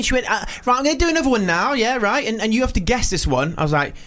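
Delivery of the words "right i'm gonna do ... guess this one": high, eager imitation of a small child; four-year-old girl. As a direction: play a bossy little joke-teller. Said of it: "she's about four or something".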